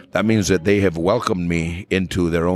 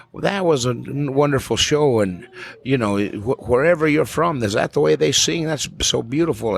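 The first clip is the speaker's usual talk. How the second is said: higher, lightly voiced Alabama lady, politely curious; Southern lady; 7 semitones higher than usual. Birmingham lady after the show, higher sweet Southern voice. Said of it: "a lady came up after the show and said".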